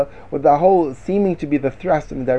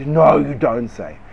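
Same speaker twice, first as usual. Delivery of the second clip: mock amazement; 3 semitones lower, slower than usual. Aunt reacting to gossip.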